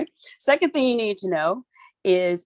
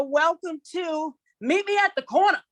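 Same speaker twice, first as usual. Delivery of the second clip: called out title; 10 semitones higher than usual. Shown as a demonstration. Host announcing the show title in a high sing-song call. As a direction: announce it like calling down the block. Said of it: "you gotta say it like that".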